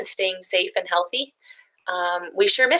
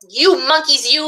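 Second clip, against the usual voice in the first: scolding peddler; 7 semitones higher, 3 dB louder than usual. Acted. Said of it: "he said".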